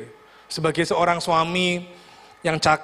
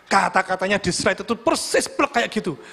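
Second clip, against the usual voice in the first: ordinary talk, nothing marked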